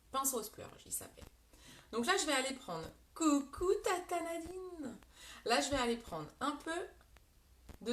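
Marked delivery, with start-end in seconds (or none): 3.1-5.0 high, slow, drawn-out coucou; sing-song greeting. Real, not acted. Greeting Tata Nadine watching the stream, high and slow sing-song. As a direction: call out a cheery hello, lifted and slow.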